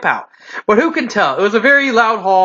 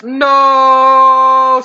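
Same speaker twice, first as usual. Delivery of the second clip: a loud, higher desperate "No!"; scream; 4 semitones higher, 5 dB louder than usual. A narrator's reading. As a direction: yell to stop them drinking. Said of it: "screamed two Vikings and one Scot".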